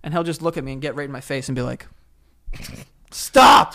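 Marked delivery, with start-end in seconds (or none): 3.1-3.7 loud, high mock dog shout. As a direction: bark it like an angry dog. Dog acting, imitated by owner.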